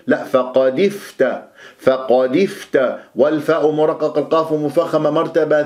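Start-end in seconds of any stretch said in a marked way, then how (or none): 0.2-3.0 slow فقد افت with a clear i after d; full kasra. Shown as a demonstration. Teacher correcting the vowel, full kasra in فقد افت. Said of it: "دائمًا اكسر المكسور".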